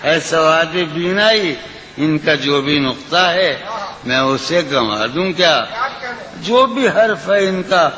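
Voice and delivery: lilting, sung-through recitation of a ghazal; poetry recitation. Acted. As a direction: recite it like at a mushaira. Recites the closing lines.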